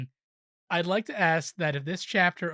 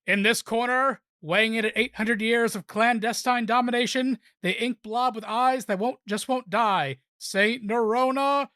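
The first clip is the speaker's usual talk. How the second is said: booming ring announcer intro, slightly higher; WrestleMania announcer; 5 semitones higher than usual. Acted. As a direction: hype up the fighter like a ring announcer. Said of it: "in my best WrestleMania announcer voice".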